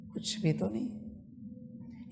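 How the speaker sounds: slow, breathy whispered answer. Acted. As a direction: breathe it out as a hush. Meditation guide's hushed final answer.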